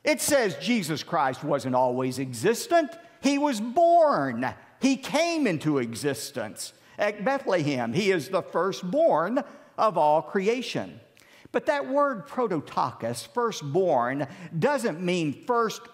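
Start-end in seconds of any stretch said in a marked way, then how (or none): 0.0-11.0 mock Jehovah's Witness. Pastor imitating Jehovah's Witnesses at the door, mildly mocking. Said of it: "they love this verse because they say".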